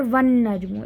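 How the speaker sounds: "वन नजमु" with a held double n, no lam; assimilated reading. Shown as a demonstration. Teacher repeating the right form, n doubled. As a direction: run वन into नजमु on a long n. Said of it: "इस तरह से नहीं pronounce करेंगे".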